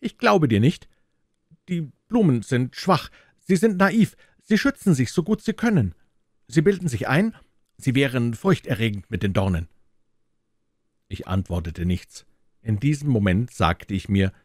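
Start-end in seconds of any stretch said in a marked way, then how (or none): 0.0-9.7 put-on a little boy shouting back in protest; angry outburst. A narrator's reading. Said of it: "rief er verärgert".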